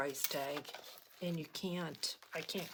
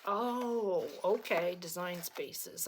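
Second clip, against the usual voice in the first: bemused; slower than usual. Retold or imitated. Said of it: "And I'm like".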